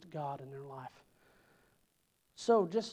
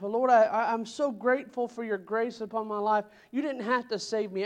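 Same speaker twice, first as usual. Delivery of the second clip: rising, louder fervent prayer of thanks; fervent praying; 4 semitones higher, 5 dB louder than usual. Pretend. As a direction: pour out thanks to the Lord, voice climbing. Acted congregation prayer of thanks.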